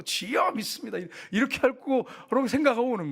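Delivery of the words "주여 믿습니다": mock-earnest, higher-pitched cry to God; fervent prayer. Imagined healer praying over the sick, fervent. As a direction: act out a zealous prayer, pitched up. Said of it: "간절히 막 기도하고".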